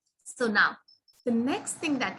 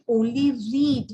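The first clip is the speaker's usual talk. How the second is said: "only read" slow and louder, leaning on "read"; stress on read; 5 dB louder, slower than usual. Shown as a demonstration. Teacher contrasting with the third sentence, stressing "only read". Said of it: "we are saying".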